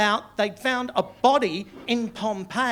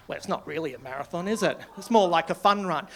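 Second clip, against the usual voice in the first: imitating a pedant; 3 semitones lower than usual. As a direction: play a mildly pedantic killjoy. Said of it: "be pedantic about this".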